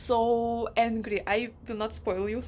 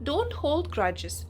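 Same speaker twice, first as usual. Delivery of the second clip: mock placating others; 6 semitones higher than usual. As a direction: imitate them waving the problem away. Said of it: "And they're like".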